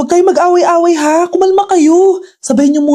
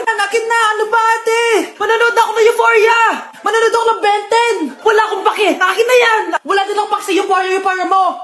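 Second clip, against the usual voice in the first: put-on higher whiny child fight; squabbling kids; 4 semitones higher than usual. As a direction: bicker like a kid grabbing the remote. Siblings fighting over TV.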